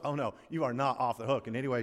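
normal talking voice

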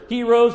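"heroes" as a way of saying gyros; pronunciation query. Retold or imitated. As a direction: say "heroes" as HEE-rohs. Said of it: "Is it pronounced".

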